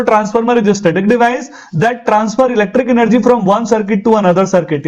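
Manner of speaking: very slow, each word spaced out like dictation; dictated model answer. Shown as a demonstration. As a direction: spell the definition out for the class.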